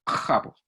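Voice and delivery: Japo con j raspada muy atrás; fricativa faríngea. Shown as a demonstration. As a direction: frota la j contra la faringe. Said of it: "como una J, pero más posteriorizada". (Japo posteriorizado)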